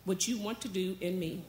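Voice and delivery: measured, reverent prayer voice; earnest prayer. Real, not acted. Pastor praying to Heavenly Father before the message, earnest prayer. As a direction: pray aloud in short, heartfelt phrases.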